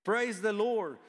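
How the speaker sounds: high, loud shout of praise; crowd shouting praise. A narrator's reading. Preacher reading the heavenly crowd's cry, loud and joyful. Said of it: "a vast crowd in heaven shouting".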